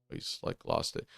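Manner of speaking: breathy whispered aside. Real, not acted. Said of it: "aside whisper".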